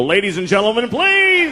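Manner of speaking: rising into a high, pleading "please"; scolding dad announcer. Retold or imitated. Dad scolding his son like a show host. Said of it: "I get to go".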